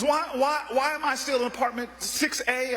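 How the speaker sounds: amused echo. Retold or imitated. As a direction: toss his question back at him, amused. Miss Jones stalling, amused.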